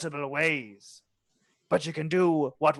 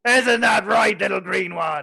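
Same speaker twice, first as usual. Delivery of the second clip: pirate voice; 5 semitones higher, 4 dB louder than usual. Acted. NPC addresses goblin.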